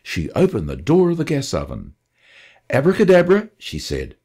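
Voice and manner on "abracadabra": a grand magician's flourish, higher and louder. Acted. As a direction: announce it like a stage magician. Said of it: "Then with a flourish".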